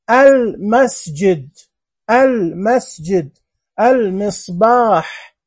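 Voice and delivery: "المسجد" slowly as al... masjid, clear L; "المصباح" spaced out, leaning on the L; lunar lam, pronounced. Shown as a demonstration. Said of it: "كلمات فيها لام قمرية منطوقة". ("المسجد" ببطء مع إظهار اللام)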